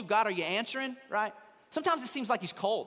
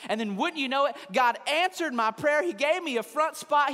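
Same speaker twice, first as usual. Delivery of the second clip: louder, higher, hammed-up amazement; mock elated testimony; 5 semitones higher, 6 dB louder than usual. Preacher mimicking someone thrilled over a parking spot, hammed-up excitement. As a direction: gush as if a miracle happened.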